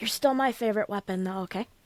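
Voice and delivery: hushed whisper in a put-on character voice. Whispering in character to a favorite weapon named Siri: whispering in character. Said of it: "whisper to Siri".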